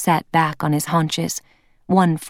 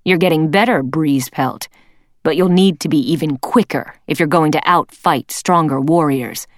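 louder, stern mentoring leader; leader cat voice; 3 dB louder than usual. Acted. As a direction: coach him firmly, voice raised. Leader coaches young warrior.

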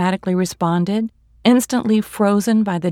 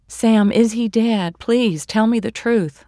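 slow, louder, higher desperate plea; pleading; 4 semitones higher, 5 dB louder than usual. Acted. Sister begging Sam on the phone for the truth, slow urgent plea. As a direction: beg him for the truth, dragging it out. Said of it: "I pleaded".

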